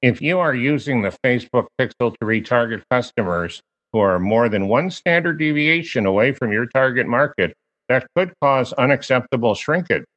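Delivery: stiff monotone robot voice. Shown as a demonstration. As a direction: read it flat like a robot. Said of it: "say this in my robot voice".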